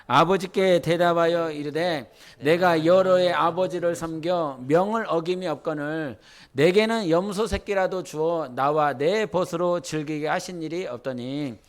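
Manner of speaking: steady group scripture reading; scripture read in chorus; congregational reading. Real, not acted. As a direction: read aloud together in unison. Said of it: "우리 한번 읽어보세요".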